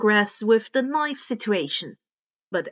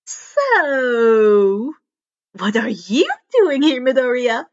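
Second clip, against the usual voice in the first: louder, eager question; nudging him to explain; curious prompting girl; 6 dB louder, slower than usual. Acted. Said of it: "Hatsume prompted".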